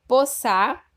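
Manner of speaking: poçar read out syllable by syllable, slow and loud, rising at the end; teacher sounding out the jumbled word poçar; slow scrambled reading. Shown as a demonstration. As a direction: spell out the jumbled word poçar slowly for the class. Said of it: "Eu vou ler do jeito que está no livro".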